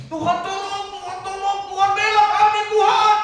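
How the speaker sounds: high, loud pleading cry to God; desperate crying out. Acted. Israelites trapped at the sea, crying high and loud. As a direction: wail for help as if trapped. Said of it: "berteriak-teriak kepada Tuhan".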